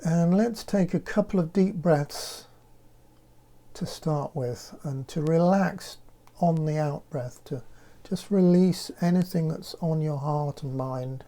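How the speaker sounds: calm, unhurried meditation voice with long pauses; guided meditation. Acted. Leads a guided breathing meditation.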